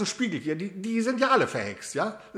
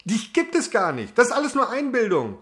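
defiant insisting; 4 dB louder than usual. Acted. Arguing with mirror.

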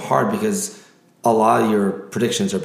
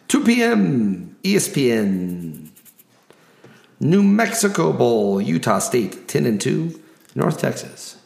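announcer voice. Acted. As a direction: hype each matchup like a ring announcer. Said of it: "my announcer voice".

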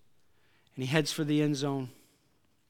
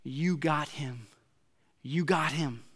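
softer, slow, assured fan voice; calm confident cheer; 3 dB quieter, slower than usual. Retold or imitated. Other half of the crowd calmly sure, softer confident call. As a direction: say it like you know he's got it. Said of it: "half the crowd would be yelling".

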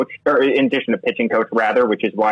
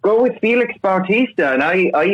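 higher-pitched, badly faked Irish accent; put-on Irish accent; 4 semitones higher than usual. Co-host reporting pub chatter from Ireland, hammed-up Irish accent. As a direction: play up a mock Irish lilt. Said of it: "I think I'm gonna drop the accent".

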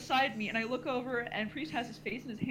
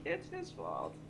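low, hushed accusation; conspiratorial blame; 14 semitones lower, 7 dB quieter, slower than usual. Retold or imitated. Group pointing out their friend, low hushed blame.

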